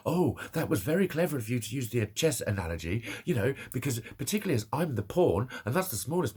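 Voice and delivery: mock-impressed sarcasm, lilting; dripping fake praise; sarcastic. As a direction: pretend to admire a clever remark, sarcastically. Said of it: "I wanted to sarcastically go".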